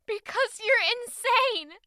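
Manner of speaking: furious, slow accusation; angry outburst. Acted. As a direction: spit it at him. Girl finally explodes.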